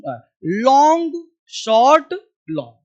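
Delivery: drawn-out long, clipped short; long short long vowels. Shown as a demonstration. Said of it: "अब यहाँ सुन". (लंबा, छोटा, लंबा खींचकर)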